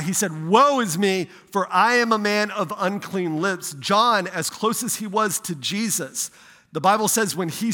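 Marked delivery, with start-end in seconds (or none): 0.5-3.7 preacher's mild cry of woe; quoted prophet's outcry. Retold or imitated. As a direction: proclaim it louder and higher, quoting a prophet crying out. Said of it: "he cried out".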